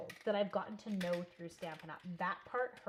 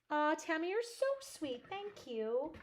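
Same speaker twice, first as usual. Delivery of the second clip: gushing; 8 semitones higher, 5 dB louder, slower than usual. Real, not acted. Gushing thanks to a viewer.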